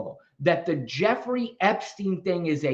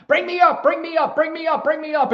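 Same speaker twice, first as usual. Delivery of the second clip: much higher, pleading repeated chant; whiny viewers; 11 semitones higher, 3 dB louder, faster than usual. Retold or imitated. Host mimicking viewers begging to be brought up, whiny. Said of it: "then everybody's like".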